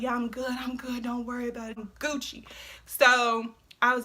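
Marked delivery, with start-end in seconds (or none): 0.0-2.4 put-on drunk mumble. Drunk insisting she's fine.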